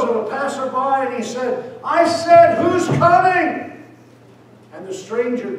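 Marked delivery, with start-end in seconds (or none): 1.8-3.8 high, loud, strained shout, slowed down; desperate demand. Acted. Blind beggar seizing a passerby, shouting desperately. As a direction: grab him and demand an answer.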